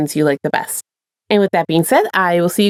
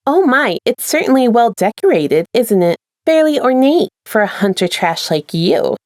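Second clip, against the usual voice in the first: mocking attendant; 2 semitones higher than usual. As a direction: sneer politely at the hunter.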